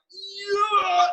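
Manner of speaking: hammed-up cry of victory; mock triumphant yell. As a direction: play a student who finally got it. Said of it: "you're like".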